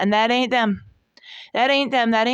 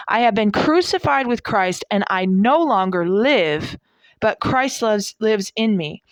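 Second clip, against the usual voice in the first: scripture reading. Acted. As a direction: read the verse like from the pulpit. Reads Galatians aloud.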